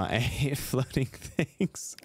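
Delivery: slow, amused, breaking into a laugh. Real, not acted. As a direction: chuckle through the words. Same words repeated, laughing this time.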